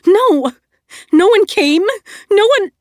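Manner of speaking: high, loud, insistent no; angry denial. Acted. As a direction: refuse to hear it, cut off. Nova denies, cut off.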